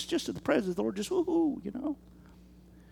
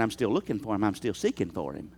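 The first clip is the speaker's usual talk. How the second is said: soft, mopey excuse voice; mock excuse; 11 dB quieter than usual. Preacher mimicking a congregant's soft excuse. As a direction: mumble it like a weak excuse. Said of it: "so therefore you're saying".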